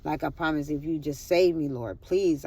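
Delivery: low, soft plea to God; retold prayer. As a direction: pray under your voice, bargaining. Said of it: "I'm praying".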